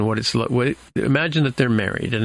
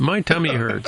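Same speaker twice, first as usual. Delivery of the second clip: put-on kid complaining; 5 semitones higher than usual. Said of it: "the kid says".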